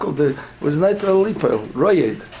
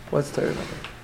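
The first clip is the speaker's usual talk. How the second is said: whispered question; 7 dB quieter, faster than usual. Real, not acted. Teacher quizzing class, hushed aside.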